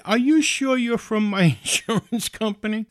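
retold agitated questioning; worked-up suspicion. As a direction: challenge them, getting worked up. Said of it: "Don't get your blood pressure up".

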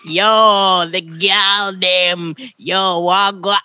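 put-on a playful Toronto accent send-up. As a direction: imitate a Toronto guy hollering at a girl. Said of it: "that's the Toronto accent".

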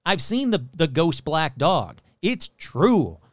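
mock local insisting in a Southern accent. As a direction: imitate a stubborn believer with a Southern accent. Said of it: "I'm giving them Southern accent".

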